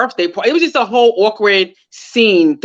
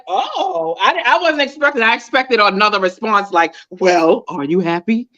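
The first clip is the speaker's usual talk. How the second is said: high, surprised rethinking; mock surprise at an unexpected reply; 3 semitones higher than usual. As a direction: caught off guard, voice jumping up. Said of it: "because I'm like".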